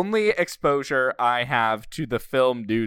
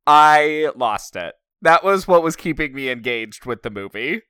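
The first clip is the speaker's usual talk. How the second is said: ordinary talk, nothing marked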